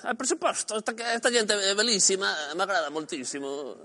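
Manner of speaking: put-on playful Italian accent; hammed-up Italian greeting. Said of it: "en plan italiano".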